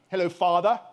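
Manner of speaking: loud, mock-formal British greeting; put-on British formality; formal posh British. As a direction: echo the posh British tease. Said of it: "that formal term".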